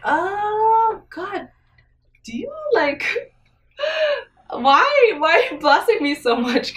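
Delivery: crying out thanks to God, overwhelmed; tearful gratitude. Real, not acted. Overwhelmed wife thanking God, crying, voice breaking high.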